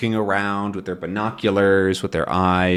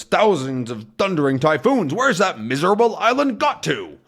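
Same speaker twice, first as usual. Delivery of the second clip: mock angry curse; 7 semitones higher than usual. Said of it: "He's very upset".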